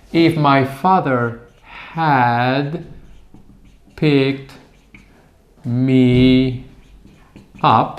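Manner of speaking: slow, word by word while writing; slow dictation. Shown as a demonstration. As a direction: spell it out slowly on the board. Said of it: "so the sentence becomes".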